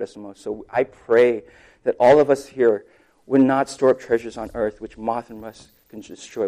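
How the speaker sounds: earnest, evenly flowing public prayer; heartfelt prayer. Real, not acted. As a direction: pray aloud to God for the congregation. Leads closing prayer.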